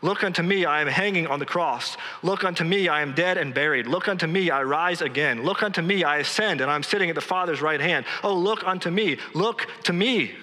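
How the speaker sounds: lightly voiced plea, lifting on each appeal; Christ pleading. The speaker preaching in the words of Christ, lightly pleading. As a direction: repeat the appeal with mild, mounting insistence. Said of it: "putting the words into the mouth of Christ".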